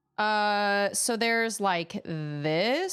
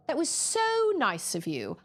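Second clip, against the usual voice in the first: attempted Australian accent; 5 semitones higher than usual. Retrying the thank-you in an Australian accent. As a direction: say it as an Aussie would. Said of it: "That's Australian".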